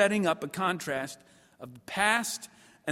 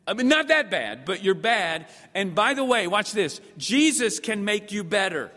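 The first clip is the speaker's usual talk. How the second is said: hammed-up preacher; 3 semitones higher, 5 dB louder than usual. Acting out a shallow preacher.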